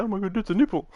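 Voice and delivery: high mock gasp of outrage; mock shock. YouTube spotting the nipple, high mock outrage. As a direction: squeal it like a scandalised moderator. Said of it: "probably gonna see and go".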